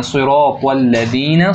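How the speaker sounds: सिरातल लदीना slow with a heavy, full सिरात; heavy sirat. Shown as a demonstration. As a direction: make सिरात thick and full. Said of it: "मोटा लफ्ज़ अपने अदा करना".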